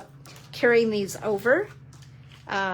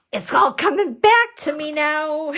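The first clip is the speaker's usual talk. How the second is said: higher, louder, laughing through it; laughing relief; 5 semitones higher, 5 dB louder than usual. Real, not acted. Finally remembering the fold.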